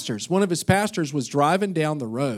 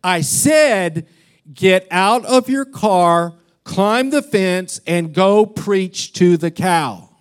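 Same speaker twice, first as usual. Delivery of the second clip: louder, slow, firm repeat of the order; insistent divine command; 5 dB louder, slower than usual. Retold or imitated. God insisting the pastor get out and preach, firm and slow. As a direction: lay down the command again, slower and louder. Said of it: "He said".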